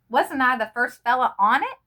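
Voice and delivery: a desperate plea that cracks; voice breaking. A narrator's reading. Boy begs to count as first on the list, voice breaking. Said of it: "his voice breaking".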